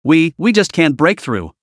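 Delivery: halting, tripping over the repeated words; a scared underling stammering out bad news; slow, faltering stammer; nervous stammer. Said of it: "stammered nervously".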